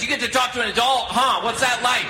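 high, sing-song voice of a tired wife; mocking wife voice. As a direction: whine it like an envious mom of toddlers. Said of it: "She goes".

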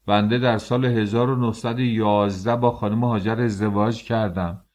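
outraged shout. Acted. Father shouts at the census official in disbelief, outraged. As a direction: protest in disbelief at the top of your voice. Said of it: "فریاد کشید".

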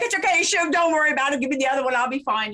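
high, light and laughing, then settling back; playful reassurance. Retold or imitated. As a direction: brush it off sweetly, fading to normal. Comforting him after he wept.

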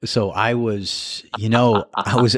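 drawn-out, slow storyteller lead-in; slow teasing build-up. Real, not acted. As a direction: stretch it out slowly to tease the story. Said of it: "It's already funny when you say that like that".

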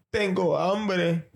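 high, slow whiny plea; whiny pleading. Retold or imitated. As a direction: drag it out like a hungry pregnant wife. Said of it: "Carla me levanta como que". (súplica lenta y quejumbrosa)

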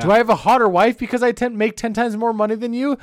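loud, worked-up alpha-male bragging; hammed-up rich alpha rant; mock alpha boasting. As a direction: brag loudly like a self-styled alpha.

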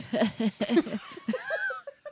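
put-on, high-pitched laugh; fake laugh. Shown as a demonstration. Host shows her not-real laugh, mock laughing. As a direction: laugh without really laughing. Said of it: "when I'm not laughing, like".

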